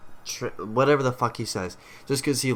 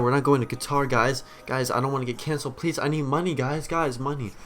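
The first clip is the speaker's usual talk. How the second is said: hammed-up pleading, slightly raised and hurried; mock panicked backtracking; 3 semitones higher than usual. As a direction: beg the guys in mock desperation. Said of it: "backtracking myself on my podcast and say".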